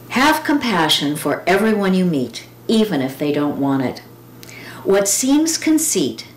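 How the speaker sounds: measured, earnest poem recital; gentle recited verse; poem reading. Acted. Reads a Miller Williams poem.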